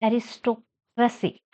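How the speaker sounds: "Aristocracy" stressed on "toc". Shown as a demonstration. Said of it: "Stress on doc".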